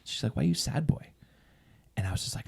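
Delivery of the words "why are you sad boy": higher-pitched playful question; joking tease. Retold or imitated. Husband retells wife's love-language humor, joking. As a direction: imitate a teasing, jokey question. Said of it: "funny, joking".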